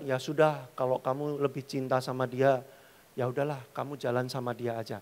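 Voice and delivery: hurt girl pretending not to care; quiet resigned girlfriend. Girlfriend letting the cheating boyfriend go, quiet and resigned. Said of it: "cewek ini bilang".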